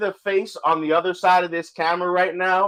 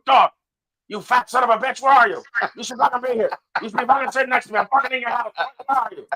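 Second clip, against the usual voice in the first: mild mock yell; 5 semitones higher, faster than usual. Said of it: "And he's screaming".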